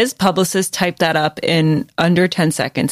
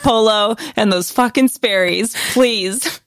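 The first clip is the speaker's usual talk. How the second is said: higher-pitched teasing demand; mock pleading; 4 semitones higher than usual. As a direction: playfully imitate a pushy, begging sibling. Teasing impression of co-host begging sister.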